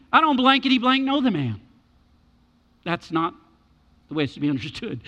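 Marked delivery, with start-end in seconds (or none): 0.1-1.6 higher-pitched Peter protesting with bleeped curses; exasperated acted outburst; mock swearing denial. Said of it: "I've always preached it like this".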